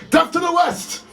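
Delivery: put-on high, squeaky kid shout of a wish; a tiny boy squealing his birthday wish; mock toddler cry. A two-year-old shrieking over his candles.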